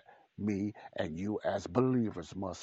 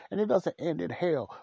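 preaching loud; 8 semitones higher, 6 dB louder than usual. Real, not acted. Preacher raises voice on warning.

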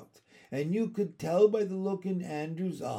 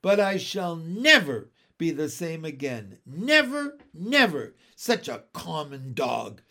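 higher, louder, melodramatic giving in; distraught surrender; 4 semitones higher, 5 dB louder than usual. Acted. Miss Lark letting the dog sleep in her room, distraught. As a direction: lament the surrender, peaking on never.

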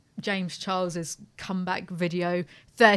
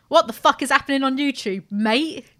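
put-on blokey British accent; 4 semitones higher, 4 dB louder than usual. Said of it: "I don't know why I sound like this".

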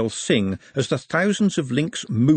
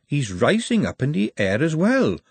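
half hypnotised; 4 semitones higher than usual. Acted. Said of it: "in the voice of someone half hypnotised".

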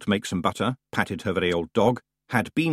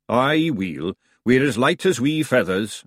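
Scottish Feegle; 3 semitones higher, slower than usual. Acted. Big Yan, Feegle.

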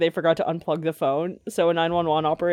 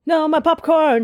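surprised outcry; 9 semitones higher, 5 dB louder, slower than usual. Real, not acted. Popcorn spills, outcry.

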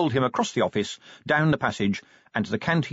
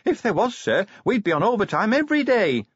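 put-on much higher young dwarf voice with a grin; grinning; 12 semitones higher, 3 dB louder than usual. A narrator's reading. Cheery joking with Vimes about fools, grinning and high. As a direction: crack the joke cheekily, pitched up high. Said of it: "said Cheery, grinning".

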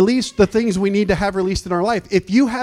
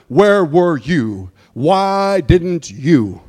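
whiny accusing complaint; 3 dB louder, much slower than usual. Pretend. Voicing complaint to God.

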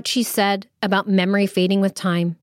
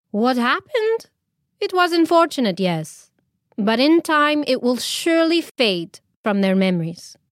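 soothing; 4 semitones higher than usual. Acted. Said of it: "she soothed".

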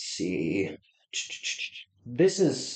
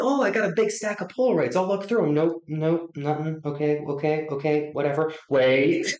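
excited inner voice; 5 semitones higher than usual. Retold or imitated. Retelling own excited thoughts.

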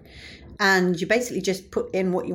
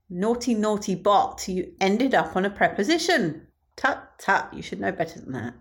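mock scolding. Comedian to the joke bot, mock scolding. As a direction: tut at it like a naughty child.

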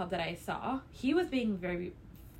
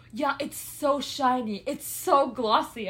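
mock fawning; 4 dB louder, slower than usual. Creep admiring lips, retold.

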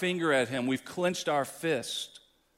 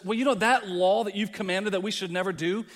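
loud, dismissive shrug at God's law; defiant sinner quote; 5 semitones higher, 5 dB louder than usual. Retold or imitated. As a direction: brush off the law like it's nothing. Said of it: "Every one of us has says".

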